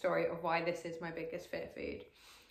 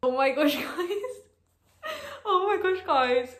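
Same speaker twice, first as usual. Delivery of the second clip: high, loud, giddy disbelief; overjoyed, near-tearful gush; excited squeal; 10 semitones higher, 8 dB louder, slower than usual. Real, not acted. Excited opening reaction, squealing.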